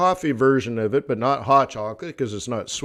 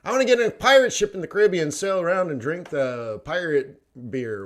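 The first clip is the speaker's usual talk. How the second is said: higher, louder and fast, hammed-up eagerness; mock excited repeat; 4 semitones higher, 4 dB louder than usual. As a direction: parrot the wish back like a giddy kid. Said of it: "Gary's like".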